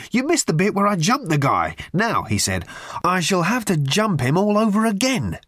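high, indignant rage; raging. A narrator's reading. Ford raging that Arthur missed the fight, high. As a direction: fling the complaint up high. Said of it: "raged Ford".

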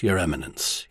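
soft and low, trailing off; softly. A narrator's reading. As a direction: say it gently, dropping away. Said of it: "he said softly".

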